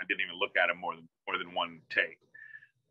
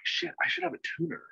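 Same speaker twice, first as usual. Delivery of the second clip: panicking; 4 dB quieter, faster than usual. Retold or imitated. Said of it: "kinda panicking".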